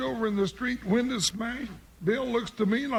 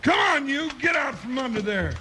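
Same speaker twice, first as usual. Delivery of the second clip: commanding call; 3 semitones higher than usual. Acted. Ordering hidden man out.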